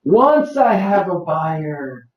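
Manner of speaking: Once I have a buyer said very slowly, weight on Once; slow and deliberate, leaning on Once; slow, stressed model line. Shown as a demonstration. Instructor modelling the line for brokers, slow and stressed. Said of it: "Oh boy, what a difference".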